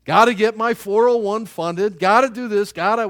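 lightly voiced anxious breadwinner; mocking busy worrier. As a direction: play the harried earner ticking off duties. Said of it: "We got a lot of got tos".

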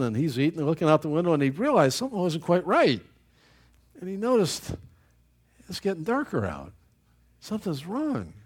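ordinary delivery

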